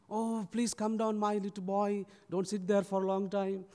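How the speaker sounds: gently beg, voice lifted; pleading. Retold or imitated. Mother begging her little boy down from the tree, pleading. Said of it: "she was pleading".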